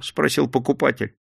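usual speaking voice

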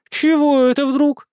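high, loud, slow indignant outburst. A narrator's reading. Sister objecting to her mother, loud and indignant. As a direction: throw the question back, outraged. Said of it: "возмутилась сестра".

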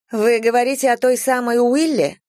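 high-pitched, inquisitive character voice; curious woman. A narrator's reading. Vanetta asks from behind, high curious voice. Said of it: "поинтересовалась откуда-то сзади Ванетта".

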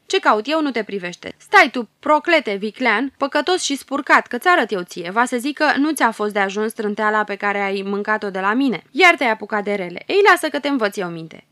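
the hero rebuking the villain angrily; angry rebuke. Acted. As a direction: put the villain in his place. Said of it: "Făt Frumos îl repede".

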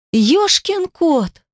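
high drawn-out exclamation, slow; exclaimed. A narrator's reading. Death exclaims at the mark on her wrist, high and slow. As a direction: blurt it out stretched in shock. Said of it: "воскликнула".

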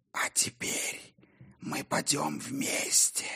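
weak, breathless, dying whisper; dying rasp. A narrator's reading. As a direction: gasp it out with last breath. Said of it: "слабый, задыхающийся, словно бы предсмертный хрип".

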